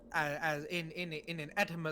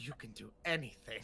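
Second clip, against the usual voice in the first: whispering, much lower in pitch; 6 semitones lower than usual. Player gives bardic inspiration to another player's character, whisper. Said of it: "as she whispers".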